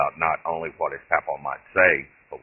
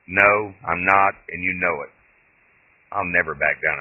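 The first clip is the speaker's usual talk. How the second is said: indignant denial; 2 semitones higher, 6 dB louder than usual. Acted. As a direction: drag out the no, stung pride. Doug indignantly denies being chicken.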